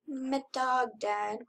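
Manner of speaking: a quiet grieving announcement; sad. Real, not acted. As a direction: let it fall heavily. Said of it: "I am sad".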